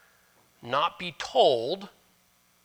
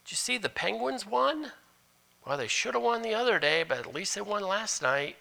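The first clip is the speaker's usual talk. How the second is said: high breezy chit-chat; casual small talk; 6 semitones higher than usual. Retold or imitated. Pastor mimics superficial church chatter, breezy. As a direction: toss it off like idle small talk. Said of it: "more superficial than".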